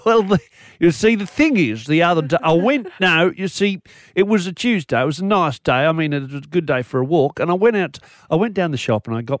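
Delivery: lightly voiced grumpy old man; a hint of a cranky old bloke. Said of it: "I don't want to sound like a, like a grumpy old, old man".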